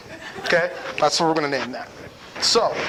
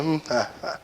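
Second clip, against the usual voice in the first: distracted grunts; 6 dB quieter than usual. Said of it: "I'm just hitting her with the".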